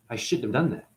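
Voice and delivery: remorseful Shiva. Retold or imitated. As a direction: murmur it as if the rage has just drained away. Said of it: "Shiva goes".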